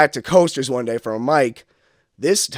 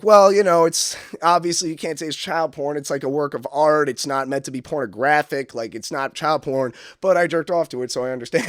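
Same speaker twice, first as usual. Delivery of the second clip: put-on the old joke; 3 semitones higher than usual. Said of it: "I had this joke where I was like".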